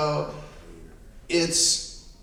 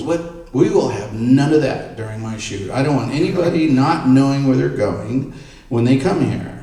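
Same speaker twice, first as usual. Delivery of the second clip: retold indignant outburst, louder on the demands; agitated; 2 semitones higher, 6 dB louder than usual. Star's son objecting during the shoot visit, agitated. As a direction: act out an agitated client laying down rules. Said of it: "he's also very agitated about something".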